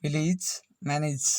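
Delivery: "विलेज, मैनेज" with the last vowel sounded as ई; A as ई demo. Shown as a demonstration. Teacher showing rare A words, sounding ई at the end of "विलेज, मैनेज". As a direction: model "विलेज, मैनेज" carefully, endings like "-ij". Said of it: "ए का उच्चारण ई".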